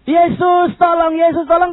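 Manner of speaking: high-pitched pleading call; retold cry for help; crying out to Jesus. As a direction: keep calling high for help. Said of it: "Lalu setelah dia teriak-teriak".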